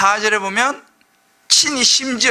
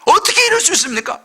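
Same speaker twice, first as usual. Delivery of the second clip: much higher, louder pleading cry; anguished plea to God; 10 semitones higher, 3 dB louder than usual. Retold or imitated. Preacher voicing a wronged believer crying out, much higher. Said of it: "너무 억울한 거예요".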